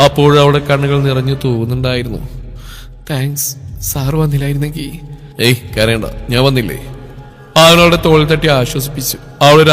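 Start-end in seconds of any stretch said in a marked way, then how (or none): 3.1-4.9 softer, choked thank-you; tearful thanks. Acted. Rescued girl thanking Sunny, soft and tearful. 5.4-6.8 lower, softer reassurance; gentle comfort. Acted. Sunny consoling the crying girl, low and gentle.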